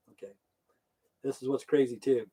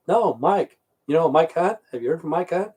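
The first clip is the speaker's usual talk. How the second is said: playful teasing, higher and louder; mock radio call; 3 semitones higher, 3 dB louder than usual. A coworker jokes on the company radio, teasing and higher. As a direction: sell the pun like a buddy on the radio. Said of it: "And one would say".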